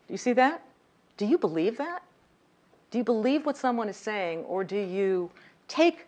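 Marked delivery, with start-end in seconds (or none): 0.1-4.4 uptalk, each question ends higher; rising lilt. Shown as a demonstration. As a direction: let every phrase lift up at the end. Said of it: "It lilts up at the end".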